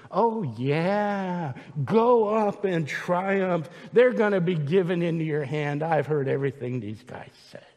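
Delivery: a hint of sarcastic mimicry; lightly sarcastic prophet; Micaiah's mocking voice. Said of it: "in the voice that I think Micaiah used".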